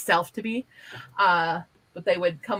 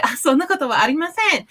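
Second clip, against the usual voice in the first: polite modest denial; 7 semitones higher, 4 dB louder than usual. Shown as a demonstration. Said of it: "a very polite way to say it".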